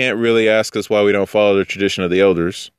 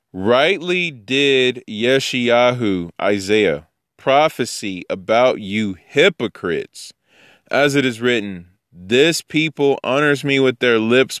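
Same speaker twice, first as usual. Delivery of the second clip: measured, drawn-out recitation; scripture reading; slower than usual. Acted. Teacher reading Isaiah's prophecy about hypocrites, measured recitation. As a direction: read the verse slowly and deliberately.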